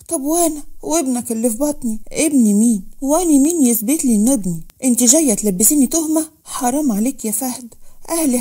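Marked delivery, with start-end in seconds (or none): 2.1-6.3 loud, scornful denial; angry denial. Acted. Fahd to Manal refusing the child, loud and scornful. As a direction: throw the accusation back at her.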